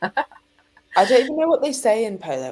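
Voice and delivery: plummy upper-class English; posh accent. Pretend. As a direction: put on a posh polo voice. Mock posh polo talk.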